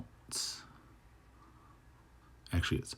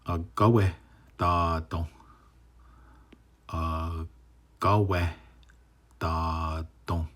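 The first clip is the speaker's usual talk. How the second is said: split into parts; much slower than usual. Shown as a demonstration. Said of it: "So this first one is".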